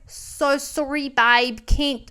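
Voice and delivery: put-on Australian brush-off, drawn out; slow, casual imitation Australian; Australian accent. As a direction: apologise in a mock Australian accent. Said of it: "I don't know why I made him Australian".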